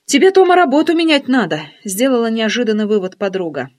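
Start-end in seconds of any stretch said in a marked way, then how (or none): 0.0-1.6 lightly voiced nosy girlfriend, a bit higher; teasing curiosity, lifted voice; friend's voice. Nosy friend quizzing narrator on phone, lightly raised voice. Oksana's sudden verdict.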